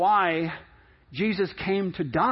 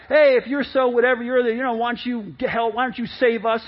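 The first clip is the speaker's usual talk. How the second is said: mocking jeer; 3 semitones higher than usual. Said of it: "they're all mocking him".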